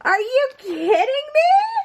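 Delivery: very high squeal of disbelief; overwhelmed, near tears. Real, not acted. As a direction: squeal it, between laughing and crying. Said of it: "I'm gonna start crying".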